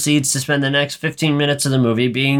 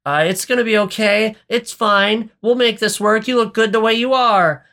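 high-pitched, panicky reassurance; imitating a flustered pep talk; mildly panicky; 8 semitones higher than usual. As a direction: reassure someone while starting to panic. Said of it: "panicky a little bit and is like".

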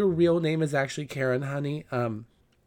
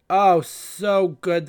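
drawn-out rave; 5 semitones higher, 7 dB louder, much slower than usual. Real, not acted. Raving about the pie.

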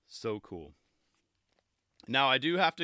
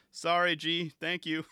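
raised, louder mock shout-out; imitated shout-out; 5 semitones higher, 4 dB louder than usual. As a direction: call out a quick thanks, imitating a skater. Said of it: "gave a shout out".

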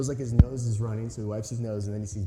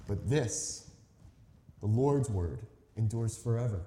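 measured, solemn reading of scripture. Acted. Preacher reading John to the church, solemn and measured. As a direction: read the passage aloud to the congregation.

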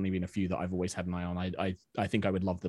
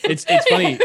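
laughing; 11 dB louder than usual. Real, not acted. Bursts out laughing.

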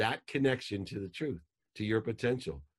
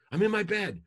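put-on much higher, loud teen voice; whiny daughter; 13 semitones higher, 6 dB louder than usual. Daughter woken by angry dad, high and whiny. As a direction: answer like a defensive teenage girl. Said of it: "imagine if I would have called".

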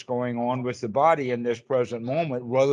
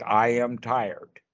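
slow labelling statements; 2 semitones lower, slower than usual. Shown as a demonstration. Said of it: "We say things like".

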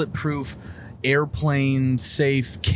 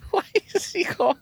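surprised. Real, not acted. Surprised by call.

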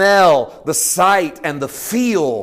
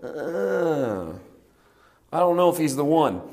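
doubting crowd; 5 dB quieter than usual. Retold or imitated. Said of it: "them go".

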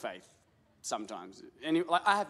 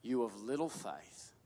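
gentle rebuke; 8 semitones lower, 8 dB quieter than usual. Shown as a demonstration. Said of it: "Let's have a conversation".

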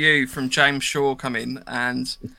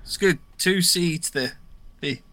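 put-on northern accent. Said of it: "read it in a northern accent".

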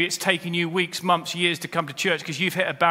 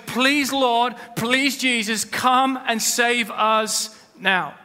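raised, higher pleading cry, dragged out at the end; crowd's plea; 6 semitones higher, much slower than usual. Acted. Preacher voicing the Jerusalem crowd's pleading cry. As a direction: call out to the Lord as the crowd under Roman rule. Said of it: "They were saying".

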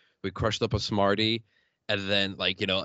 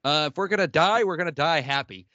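retold yell; 4 semitones higher, 5 dB louder than usual. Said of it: "we yelled back".

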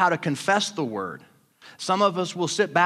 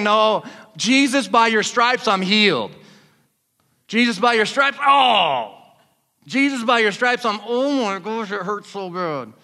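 fervent pained prayer; 3 semitones higher than usual. Retold or imitated. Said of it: "past the point of saying".

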